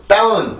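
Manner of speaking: 다운 said high without English stress; unstressed Korean 다운; wrong flat down. Shown as a demonstration. Teacher showing another wrong version. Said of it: "이렇게 발음을 하면 안 되고".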